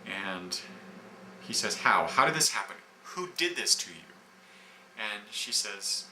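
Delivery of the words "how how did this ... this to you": mildly upset, raised questioning; a bit distraught. Acted. Thor visiting a friend with breast cancer, mildly distraught. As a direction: press the questions with a touch of distress. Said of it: "he's a bit distraught".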